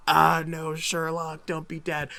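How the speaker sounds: hammed-up fangirl panic; Tumblr fangirl. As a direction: gush and fret like an overwrought fan. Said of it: "I turned like a Tumblr fangirl".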